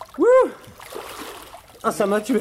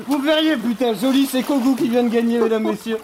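upbeat play-by-play, a touch louder; excited commentator; 4 semitones higher, 3 dB louder than usual. Pretend. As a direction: hype the winner like sports TV. Post-race commentary, excited.

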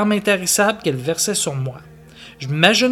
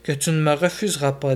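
1 painful smile. Acted. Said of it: "avec un sourire douloureux".

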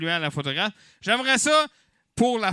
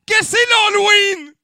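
crié très haut et fort; annonce criée; 9 dB louder than usual. Acted. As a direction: claironne la nouvelle à la foule. Animateur annonce l'Halloween à la foule. (animateur qui crie l'annonce à la salle)

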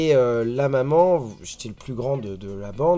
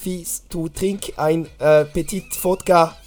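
put-on slow, higher-pitched German-accented English; 5 semitones higher, slower than usual. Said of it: "Avec un petit accent allemand".

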